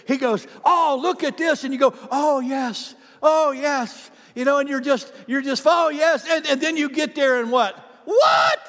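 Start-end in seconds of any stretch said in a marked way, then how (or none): 0.7-1.6 enticing tempter. Retold or imitated. Enemy voiced tempting. 2.1-4.1 eager yes. Retold or imitated. Person eagerly falling for temptation. 5.6-6.3 eager yes. Retold or imitated. Eager temptation voiced. 8.0-8.6 high shrieked loud what; a loud high startled what; shocked what. Retold or imitated. Disappointed shock at temptation.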